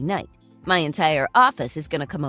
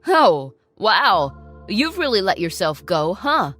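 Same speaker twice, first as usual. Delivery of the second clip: mocking; 5 dB louder than usual. Ex-husband voiced mocking his ex-wife.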